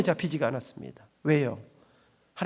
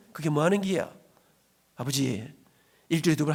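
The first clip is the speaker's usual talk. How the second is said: ordinary delivery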